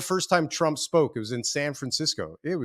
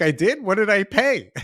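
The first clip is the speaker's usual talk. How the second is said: rising, higher, startled questions; mock alarm at what he just paid; a dawning hammed-up shock; stunned disbelief; 7 semitones higher, 5 dB louder than usual. Shocked at his own deal.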